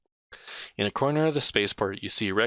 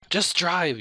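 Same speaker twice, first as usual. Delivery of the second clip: higher, louder snap at the driver; yell; 9 semitones higher, 4 dB louder than usual. Acted. Rex yells at the chatty cabbie to drive, loud. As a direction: yell it, out of patience. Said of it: "yells Rex".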